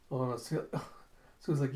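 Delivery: ordinary delivery, nothing marked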